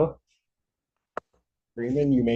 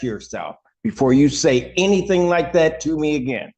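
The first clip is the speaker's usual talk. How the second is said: stern rebuke. Real, not acted. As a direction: lay down the law, measured and cold. Judge scolds defense counsel.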